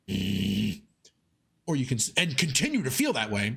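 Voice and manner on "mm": pent-up grumble. Shown as a demonstration.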